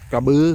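กระบือ said loud and clear, set apart as the word; central Thai word. Shown as a demonstration. Telling viewers the central Thai word for buffalo, กระบือ, said loud and clear. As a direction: announce กระบือ firmly, like a vocabulary word. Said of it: "ภาษากลางก็".

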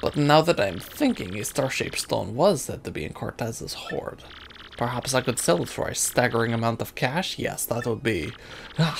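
hammed-up French trader; mock French accent, musing; silly French accent. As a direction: Flavio in a bad French accent. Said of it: "the stupid French voice".

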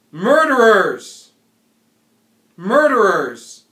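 furious wail of murderers; anguished shout. Acted. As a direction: howl it out. Cry on hearing friend's murder.

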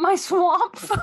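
high, laughing, incredulous echo; laughing disbelief. Real, not acted.

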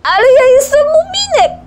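very high, loud, tearful wail; desperate cry. Acted. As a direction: plead in despair, close to sobbing. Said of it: "krzyknął z rozpaczą". (z rozpaczą, płaczliwie)

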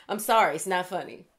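apologizing through a real laugh; laugh, then sheepishly say sorry; giggling sorry that slips out; laughing apology. Real, not acted. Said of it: "I don't know why I keep laughing".

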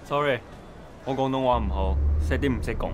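put-on Cantonese with a Mandarin accent; halting Mandarin-accented Cantonese.

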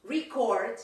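Record as the verb, said re-CORD; verb pronunciation of record. Shown as a demonstration. Teacher showing the verb Record, said re-CORD. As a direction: stress the second syllable of Record. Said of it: "with a different pronunciation".

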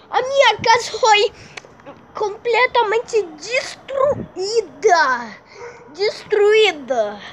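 slow, whimpering lament over the house; hammed-up weepy wail; mock crying. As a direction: sob it out slowly like it's tragic.

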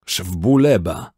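slow, loud barked command in Georgian; Georgian shout. A narrator's reading. Georgi shouts the order to hold fire. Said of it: "krzyknął po gruzińsku Georgi".

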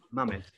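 "Mamed" said as MA-med, no H; without the H. Shown as a demonstration. Presenter showing the Greek spelling of John of Damascus, "Mamed" without H. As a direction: leave any H out of "Mamed". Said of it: "he doesn't use an H".

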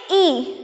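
"ई" sounded alone as a single long vowel; phonic sound demonstration. Shown as a demonstration. Teacher shows kids how double e sounds, "ई" as long ee. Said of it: "कैसे pronounce करेंगे".

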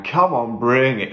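a mock defiant shout, loud; daring the trip to bring it on; retold shout. To the psychedelic trip, a mock defiant shout. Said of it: "I was still shouting".

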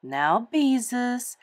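slow, gentle calming word. Acted. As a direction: soothe the upset girl slowly. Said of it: "Missus Quimby spoke gently".

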